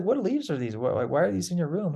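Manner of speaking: high, demanding questions; mock angry elder; stern maestro. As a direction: voice the shocked teacher scolding.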